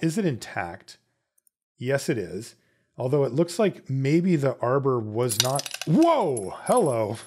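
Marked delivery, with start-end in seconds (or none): 5.9-7.2 real startled whoa, higher and louder. Real, not acted. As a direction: caught off guard, an amused hello. Part springs away unexpectedly.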